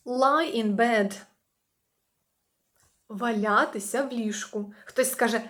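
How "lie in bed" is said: slow model phrase. Shown as a demonstration. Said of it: "teacher models phrase".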